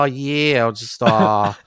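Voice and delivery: playing a grim Norwegian rocker; Norwegian accent. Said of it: "I don't have that sweet Norwegian accent".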